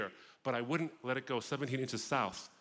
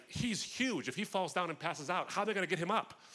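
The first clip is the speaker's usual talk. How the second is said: high-pitched fretting, tearful in imitation only; mock crying; 6 semitones higher than usual. Crying wife frets over how they'd lift him, mock tearful. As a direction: imitate a worried, crying woman in a raised voice. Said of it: "but she's crying. She's like".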